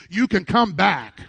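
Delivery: emphatic, punched-out encouragement; like you mean it. Shown as a demonstration. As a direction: say it with conviction to rouse the room. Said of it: "say it like you mean it".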